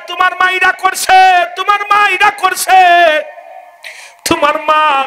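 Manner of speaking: high, loud nagging complaint; a hint of a nagging wife. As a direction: nag the husband at bedtime. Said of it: "রাতে ঘুমাইতে গেলে কয়". (বউয়ের অভিযোগের সুরে)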